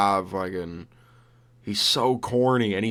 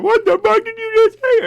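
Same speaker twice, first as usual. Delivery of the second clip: much higher and louder, shrieking; outraged yell; 7 dB louder than usual. Retold or imitated. Furious judge answering Dricus, a high loud shriek. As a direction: scream it in disbelief. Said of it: "you fucking go off at the fucking judge".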